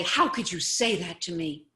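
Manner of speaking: loud, pretend wounded protest; mock upset. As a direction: act all hurt, hammed-up. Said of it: "get all upset and say".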